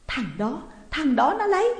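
rising to a high, loud cry; alarmed accusation. A narrator's reading. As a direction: blurt out the culprit, climbing sharply. Woman realizes who robbed her. (la lên hoảng hốt)

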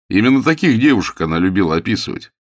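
plain reading voice

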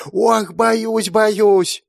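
high, loud hammed-up terror; ironic mock fear. A narrator's reading. Brother mocking his sister's threat, fake fright. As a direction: pretend to be scared. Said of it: "Иронично покачал головой Акира".

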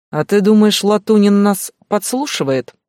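loud, high and indignant; shouting. Acted. Stas yells at Glasha in the hospital ward, loud. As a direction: bellow it at her. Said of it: "вы орёте".

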